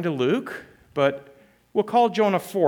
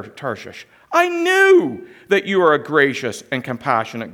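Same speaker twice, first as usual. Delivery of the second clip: raised, forceful voice for Jonah's complaint; loud angry prayer; 2 semitones higher, 5 dB louder than usual. Acted. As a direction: let Jonah's grievance ring out. Jonah's angry prayer read aloud.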